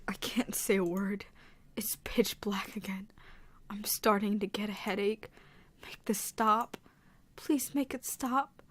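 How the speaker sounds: soft whispered story read; hushed horror narration. Acted. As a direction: breathe the narration quietly. Reads game narration in whisper.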